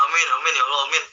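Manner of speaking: rattled-off amens, mind on a game; mock a half-hearted, automatic prayer; distracted praying. Preacher mimics praying while gaming, absent-minded amens. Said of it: "Apalagi sambil nge-game".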